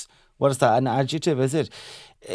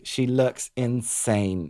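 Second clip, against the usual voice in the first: very slow imitation of the presenter; quoted slowly, drawn out; Maya Jama; 3 dB quieter, much slower than usual. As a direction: stretch every word right out. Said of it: "Maya Jama was like".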